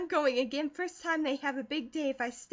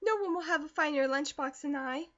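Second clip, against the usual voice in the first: much higher, gushing thanks; breathless delighted gushing, much higher and louder; overjoyed girl; 7 semitones higher, 4 dB louder than usual. A narrator's reading. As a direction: tumble out the joy, much higher. Girl thrilled by lunchbox.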